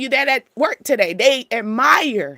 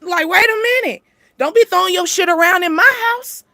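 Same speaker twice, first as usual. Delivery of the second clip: raised, indignant voice telling a guest off; annoyed homeowner; 6 semitones higher than usual. Retold or imitated. Acted guest throwing stuff around.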